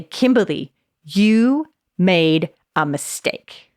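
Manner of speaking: slow, stern scolding; a disappointed scold to yourself; harsh tone. Shown as a demonstration. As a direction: drag it out like a reproach. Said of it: "Same words, massive in different tone".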